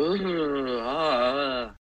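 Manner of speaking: mock shivering whimper; wordless imitation of a crying girl; imitated shivering cry. Retelling Kirsty's terror at the movie's end, mock shivery crying. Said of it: "she's crying and shivering".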